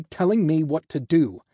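angry protest, emphatic; indignant. A narrator's reading. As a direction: push back hard, falling at the end. Angry half of the echoed line.

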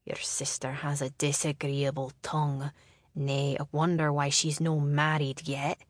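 a hint of a grumbling Scottish lord.

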